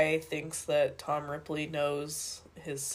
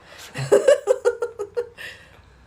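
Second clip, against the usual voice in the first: high laugh; 7 dB louder than usual. Real, not acted. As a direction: burst of high-pitched laughter. Caught looking at someone weird.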